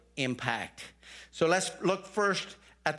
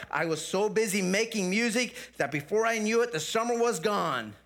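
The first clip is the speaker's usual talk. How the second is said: whining grasshopper; 4 semitones higher than usual. Acted. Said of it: "whined the grasshopper".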